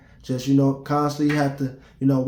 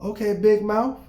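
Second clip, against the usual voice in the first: higher taunting call-out of Big Mouth; petty taunt; 7 semitones higher than usual. Pretend. Imagined reply to the girl, higher and taunting. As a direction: goad her mockingly. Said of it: "I coulda been".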